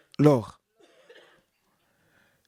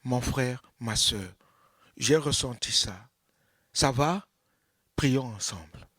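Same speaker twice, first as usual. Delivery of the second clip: gentle brother; 5 semitones lower than usual. Acted. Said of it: "te dire".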